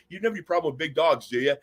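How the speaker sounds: breezy throwaway line. Retold or imitated. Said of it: "I'd nonchalantly go".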